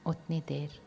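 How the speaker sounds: calm, even voice with long pauses; guided meditation. Real, not acted. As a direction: guide their focus gently inward, phrase by phrase. Leads visualisation of inner light.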